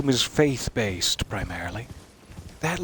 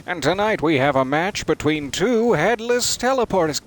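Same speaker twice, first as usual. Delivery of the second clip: mock UFC ring announcer, raised and louder; fight announcer; 5 semitones higher, 4 dB louder than usual. A player hyping a boss fight like a UFC announcer. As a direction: hype up two headless teleporters like a title bout. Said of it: "in the U F C".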